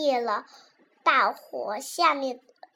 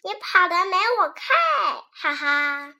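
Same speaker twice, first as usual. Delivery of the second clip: laughing; 4 semitones higher, 6 dB louder than usual. Acted. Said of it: "莉莉笑着说".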